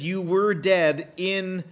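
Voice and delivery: "were dead" slowed right down; stress on WERE DEAD. Real, not acted. Preacher quoting Paul to the congregation, slow stress on "were dead". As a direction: press slowly on "were dead". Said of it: "You heard me emphasize it".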